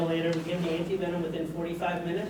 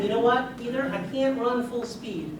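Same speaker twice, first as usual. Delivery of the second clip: imitated country kid, pitched higher; cute country accent; 4 semitones higher than usual. Boy confiding in his doctor, imitated country accent. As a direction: put on a little boy's country accent, lightly. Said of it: "in his cute little country accent".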